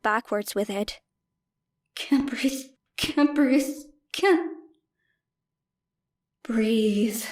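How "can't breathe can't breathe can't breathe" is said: panic attack. A narrator's reading.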